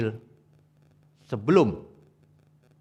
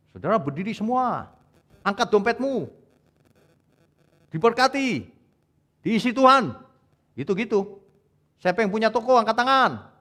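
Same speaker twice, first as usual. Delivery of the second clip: higher, hammed-up prosperity preacher; mocking false preacher; 8 semitones higher than usual. Preacher mocking prosperity preachers to the congregation, hammed-up high. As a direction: parody a careless preacher's empty blessings. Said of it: "kayak orang mabok".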